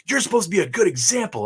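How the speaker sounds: high, loud, fast mock-scolding mom; hammed-up nagging mom voice; preachy mom. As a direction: imitate a lecturing mother in a high whine. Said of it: "she's like".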